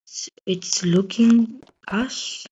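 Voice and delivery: hushed, slow frightened whisper. Real, not acted. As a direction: whisper it so it won't hear. Creature spotted, whispering.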